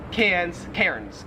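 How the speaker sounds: first "Cairns" as "cans", second with a sounded R; two city pronunciations. Shown as a demonstration. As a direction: say "Cairns" slowly both ways. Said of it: "there's, like, an R there".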